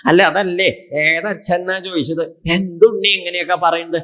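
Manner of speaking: a touch of wounded disbelief; acted distress. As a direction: plead like a hurt father. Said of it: "രാജാവ് സങ്കടം പറഞ്ഞു".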